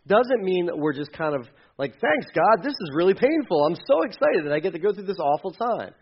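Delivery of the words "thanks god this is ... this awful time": mock cheerful thanks. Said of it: "that's not what we're saying here".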